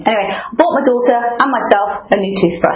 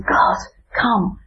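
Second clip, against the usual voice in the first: whispered plea; 2 semitones higher than usual. Acted. Voicing her surrender prayer.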